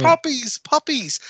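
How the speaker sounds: high, hammed-up leering old commentator. Mocking a sleazy commentator ogling the wrestler, high and hammy. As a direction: leer at her like a sleazy announcer.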